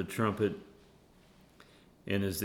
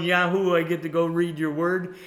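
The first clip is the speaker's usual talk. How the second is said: high, loud hammed-up yahoo; mock eager cheer; 9 semitones higher, 9 dB louder than usual. Preacher mocking the eager wake-up he should have, loud and high. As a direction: cheer like waking up is a treat. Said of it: "Instead of going".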